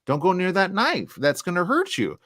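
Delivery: high, cautioning parent voice talking to a little one; warning a toddler. Acted. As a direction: warn a small child away from danger, pitched high. Warning a small child of dangers.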